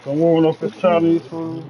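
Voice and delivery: words slurred around a cigarette; cigarette in mouth. Real, not acted. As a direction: talk with a cigarette between lips. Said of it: "I got the cigarette in my mouth".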